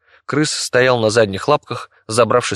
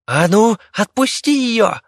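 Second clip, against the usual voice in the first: high, slow squeaking rat threat; a tiny rat trying to sound fierce; squeaky threat; 13 semitones higher, 3 dB louder, slower than usual. Acted. The rat orders the monster to release Viki, high squeaky threat.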